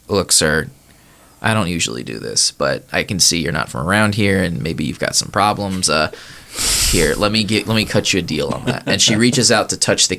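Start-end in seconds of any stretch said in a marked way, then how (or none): 0.0-8.8 sympathetic cashier. Acted. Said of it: "She kinda looks at the cat and goes".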